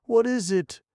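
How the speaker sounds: very high, loud furious shout; a crafty old man in a fury; raging retort. A narrator's reading. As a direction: hurl it back mad with rage. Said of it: "mad with rage".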